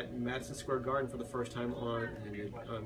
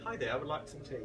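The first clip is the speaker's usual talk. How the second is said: host copies the British accent, lightly voiced; a mild try at posh English; British accent attempt. Shown as a demonstration. Host repeats the singer's British line in a faint accent. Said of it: "try this".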